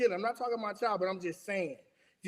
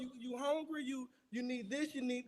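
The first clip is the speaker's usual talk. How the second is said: imitated solicitous partner; 3 semitones higher, 9 dB quieter than usual. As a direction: mimic a partner tentatively checking what is needed. Voices partner anxiously checking in.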